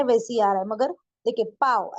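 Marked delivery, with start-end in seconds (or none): 1.4-1.9 पाँव said as "paao", nasal left out; wrong oral vowel. Shown as a demonstration. Urdu teacher showing learners the mistake, oral vowel. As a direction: cut the nose sound out of पाँव. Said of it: "ऐसे नहीं बोल रहे".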